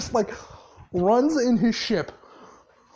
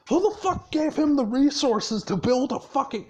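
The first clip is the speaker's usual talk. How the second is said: higher-pitched, incredulous mock outburst; retold angry cussing; 6 semitones higher than usual. Boss demanding who gave him resources, retold angry cussing. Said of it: "he just starts cussing up and down".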